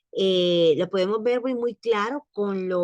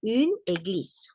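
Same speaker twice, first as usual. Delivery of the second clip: slow French reading. Shown as a demonstration. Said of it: "Luego dice".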